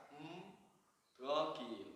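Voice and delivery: "Un tranquilo" pushed out from the throat, mouth nearly closed. Shown as a demonstration. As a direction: push "tranquilo" out without opening the mouth. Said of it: "Es como usted va a empujar". ("un tranquilo" empujado)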